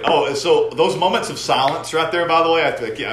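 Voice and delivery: slurring a little, tipsy and loud. Real, not acted. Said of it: "I'm so drunk".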